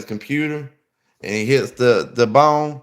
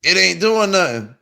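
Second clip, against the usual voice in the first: impatient complaint; 7 semitones higher, 3 dB louder than usual. Retold or imitated. Impatient, drug not working.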